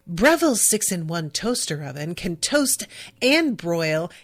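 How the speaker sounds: lightly mimicking a bland appliance video presenter; a hint of generic American product-demo narrator; generic ad voiceover. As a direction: do a mild stock domestic-ad voiceover. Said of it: "this very sort of generic sounding woman".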